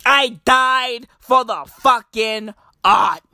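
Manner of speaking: shouted rallying cry, slowing on the last line; defiant shout. Acted. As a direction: bellow it like a martyr's vow. Defiant declaration to the virus.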